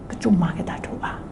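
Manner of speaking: hushed despairing whisper. Retold or imitated. Preacher voicing a doubter, whispered. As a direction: breathe it out like giving up.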